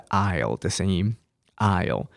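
"aisle" as a clear eye-l glide; British -ile sound. Shown as a demonstration. Teacher showing the British ILE ending, sounded "aisle". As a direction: model "aisle" alone, a full eye vowel. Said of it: "英式英文比较常念是".

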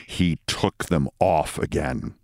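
ordinary delivery

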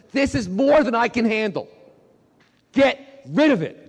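high, loud cry of protest; exasperated prayer. Acted. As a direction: act at the end of your rope with God. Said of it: "you ever say, like, to God".

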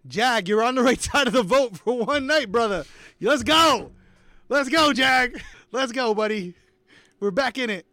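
loud, high cheer for Jag; excited cheering. Real, not acted. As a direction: celebrate loudly like a fan at a game. Cheering Jag's safe vote.

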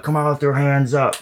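imitating a police megaphone; lightly put-on megaphone voice; mock megaphone cop. Kid playing with a neighbor's megaphone, mock cop announcement. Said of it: "speaking in the megaphone".

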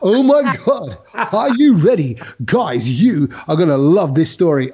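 slow, hyped-up storyteller voice; a hint of an excited mate teasing a story; Kedge impression. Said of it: "that was my impression of Kedge".

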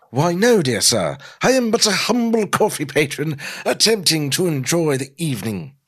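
put-on high-pitched haughty British accent; snobbish British. Dominic mocking Norman at the table, snobbish British accent. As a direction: put on a snooty British gentleman. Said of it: "in a snobbish British accent".

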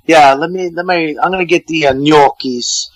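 a light mock Italian-American twang on the order. Mocking a friend ordering at the Italian restaurant, light Italian-American twang. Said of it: "he gets a little twang, Italian twang".

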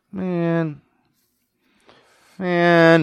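high, drawn-out mock lament; Brahm. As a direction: draw it out high, in mock dismay. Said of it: "So Brahm's like".

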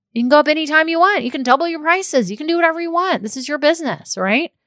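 high, fast, eager push; excited encouragement. Real, not acted. Coach telling business owners they can raise prices, excited. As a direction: hype them up about raising prices.

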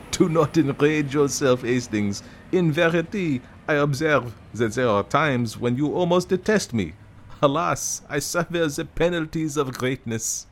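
lightly voiced fussy Belgian detective; Poirot voice.

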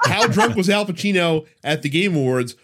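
high-pitched hammy actor impersonation; Al Pacino impression. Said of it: "I can't do a good Al Pacino voice".

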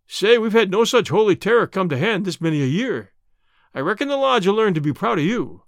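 hearty, lightly voiced boss with lifted pitch; amused boss, a touch exuberant; delighted lodge boss. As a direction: praise the newcomer with rough admiration. Lodge boss delighted after laughing.

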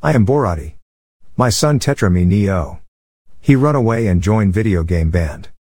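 lightly put-on Borat accent in broken English; a thin Borat accent on the broken grammar; hint of a Borat accent. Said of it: "Engage racist accent".

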